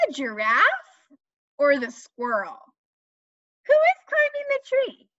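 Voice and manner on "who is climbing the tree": playful question. Acted. Quizzing children.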